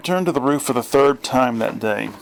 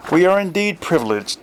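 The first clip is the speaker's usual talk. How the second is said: mock posh; 7 semitones higher than usual. A narrator's reading.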